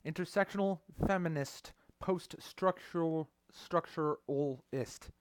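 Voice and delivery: talking around metal in the mouth; mouth full. Real, not acted. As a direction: say it with something in your mouth. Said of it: "I got fucking metal shit in my mouth".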